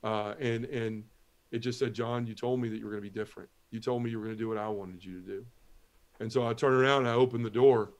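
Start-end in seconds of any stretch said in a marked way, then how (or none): 1.9-5.5 small voice. Retold or imitated. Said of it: "that small voice".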